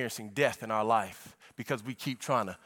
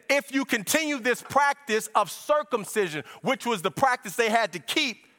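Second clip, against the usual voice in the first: driving, raised preaching voice; fervent preaching; 7 semitones higher, 4 dB louder than usual. Acted. Preacher unfolding scripture to church, fervent preaching. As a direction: preach it with steady momentum.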